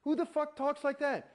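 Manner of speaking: high, tearful protest at the instructors; imitating himself near tears, pitch well up; retold crying outburst. Retelling how he argued through tears at the course, high and upset. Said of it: "I finally am crying".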